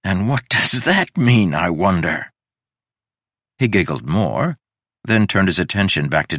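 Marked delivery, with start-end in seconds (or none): 0.0-2.3 lunatic giggle. Acted. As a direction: giggle through it like a madman. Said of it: "he giggled like a lunatic".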